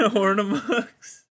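slow, drawn-out Texas drawl; mock Texas accent, dragging the words; exaggerated Texas twang. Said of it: "Gonna be doing a Texas accent".

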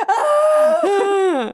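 high mock squeal; imitated high-pitched cry. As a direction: let out a drawn-out high squeal. Imitates girl's reaction to compliment.

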